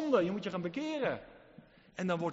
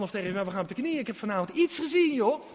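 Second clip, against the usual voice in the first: excited confession; 3 semitones higher, 4 dB louder than usual. Retold or imitated. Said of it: "En dan zeg je tegen je man".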